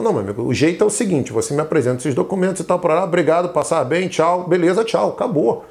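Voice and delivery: brisk, no-nonsense brush-off; firm. Acted. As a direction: politely shut it down, leaving no opening. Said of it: "O próprio jeito firme de você falar".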